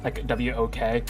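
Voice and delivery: W O K spelled slowly letter by letter. Shown as a demonstration. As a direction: spell out W O K, slow and clear. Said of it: "'Cause Big Walk".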